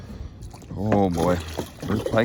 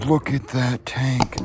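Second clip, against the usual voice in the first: amazed; 5 semitones higher, 4 dB louder, slower than usual. Real, not acted. Showing off the big bass.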